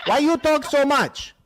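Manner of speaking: high, drawn-out put-on complaint; mock shopkeeper. Host heckling a talkative caller, mock shopkeeper voice. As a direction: needle her with a caricatured whine.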